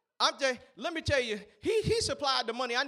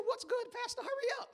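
impatient congregation; 12 semitones higher, 5 dB quieter than usual. Retold or imitated. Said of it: "I know y'all saying".

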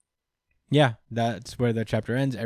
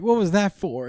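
indignant Asta; 9 semitones higher than usual. Retold or imitated. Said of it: "he's like".

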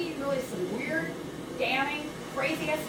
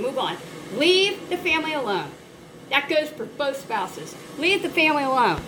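louder and louder, a heated real rant; passionate rant; 5 dB louder than usual. Real, not acted. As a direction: let the frustration build into loud scolding. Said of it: "I'm sorry I'm passionate about this".

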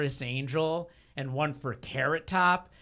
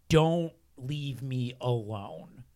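scared plea; 3 semitones lower, 5 dB quieter than usual. Retold or imitated. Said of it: "I was, like, terrified".

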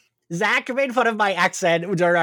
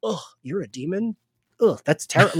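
mock disgust; 2 semitones higher than usual. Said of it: "would be like".

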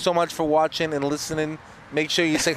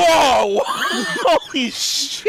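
loud, high shocked laugh; shocked shout; 13 semitones higher, 6 dB louder, much slower than usual. Real, not acted. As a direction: yelp out in disbelief. Shocked at the slur.

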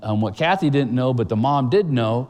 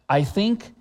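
put-on panicked child cry; 3 semitones higher, slower than usual.

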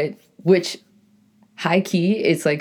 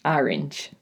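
New England vowel in Orange, said like ARR-inj; New England accent; 4 dB quieter than usual. Shown as a demonstration. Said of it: "That's how I say orange".

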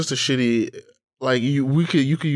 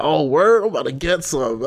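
mock eager guy; 5 semitones higher, 4 dB louder than usual. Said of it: "niggas be like".

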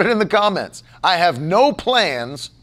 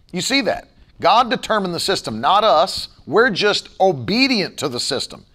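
ordinary delivery

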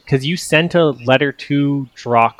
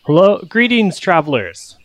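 high, projected greeting; calling up; 6 semitones higher than usual. Acted. Villager calling up to arriving travelers, friendly yelled greeting. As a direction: hail the ship from below, pitched up. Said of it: "will yell up".

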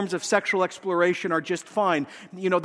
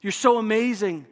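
sweet coaxing, a bit higher; flattering demon voice; 3 semitones higher than usual. Acted. Preacher voicing demons flattering a believer, coaxing. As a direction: flatter them into pride. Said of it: "they whisper the reverse".

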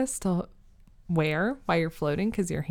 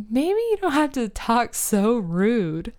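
scolding family; 4 semitones higher, slower than usual. Retold or imitated. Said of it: "they all looked at me and they said".

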